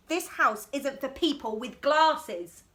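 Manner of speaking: drawn-out, deliberate; slow bossy refrain. Acted. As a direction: lay down the rule slowly.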